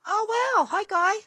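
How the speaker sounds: friendly Australian hello; Australian accent. Real, not acted. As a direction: greet him the Aussie way. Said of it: "in her Australian accent".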